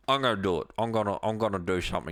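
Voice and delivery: odd put-on voice, lightly done; half-hearted attempt at a political leader's voice; Putin. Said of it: "What is this voice you're doing for Putin?".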